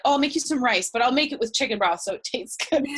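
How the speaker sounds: lightly acted eager helpfulness, laugh creeping in; cheerful offer. Grandparents offering food to a vegan grandchild, cheerfully helpful.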